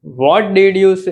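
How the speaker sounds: slow, word by word; slowly, so students can repeat; slow teaching read. Shown as a demonstration. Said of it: "તમે શું કરો છો?".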